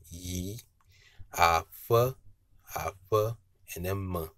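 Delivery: "Yi" low, "afe" lifted high, "me" dropped low; tone pattern demo. Shown as a demonstration. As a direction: take it piece by piece, high on "afe". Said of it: "high intonation, and low intonation".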